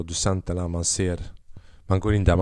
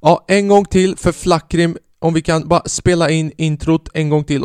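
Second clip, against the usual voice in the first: studio voice; 8 semitones higher, 5 dB louder than usual. Retold or imitated. Producer's voice from the studio asking for another take, booming mock call. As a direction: call it down from the control room. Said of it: "den där rösten från studion".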